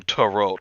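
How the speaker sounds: "tarot" said with its final T sounded; joke mispronunciation. Acted. Reading the list as a cartoon joke, "tarot" with a hard final T. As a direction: deliberately sound the last T in "tarot". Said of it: "Why are you pronouncing it like that?".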